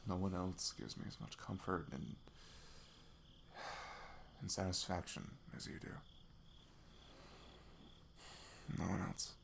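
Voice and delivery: soft, intimate and unhurried; tender confession. Acted. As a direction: murmur it tenderly to a loved one.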